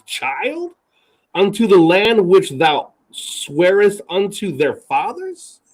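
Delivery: incredulous scripture reading, phrases rising into questions; Moses talking back. Acted. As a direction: read it as a disbelieving challenge to God. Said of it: "This is Moses talking back to God".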